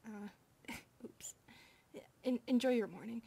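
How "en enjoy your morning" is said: louder voiced retake; corrected goodbye. Maid redoing her goodbye to the master, aloud. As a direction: say it again, out loud this time.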